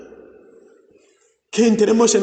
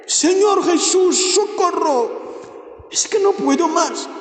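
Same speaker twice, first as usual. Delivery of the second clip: high, slow pleading cry of "socorro"; high, drawn-out plea for rescue; desperate cry for help; 8 semitones higher than usual. Acted. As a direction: cry out to Jesus as if at the end of your strength. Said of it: "grita hacia Él".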